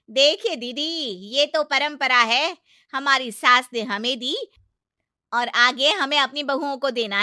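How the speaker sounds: loud, high lecturing on tradition; indignant aunt-in-law. Acted. Aunt-in-law lectures the mother-in-law on tradition, loud indignant. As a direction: defend tradition hotly.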